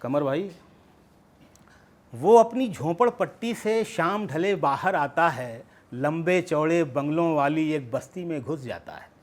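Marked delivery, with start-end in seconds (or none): 2.1-9.1 measured narrative verse; poetry recitation. Acted. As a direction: recite the story-poem in shaped phrases.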